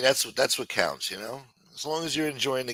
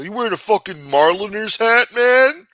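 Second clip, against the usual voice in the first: mock fan yell; 10 semitones higher, 9 dB louder than usual. Crazy Yankees fan yelling at kid.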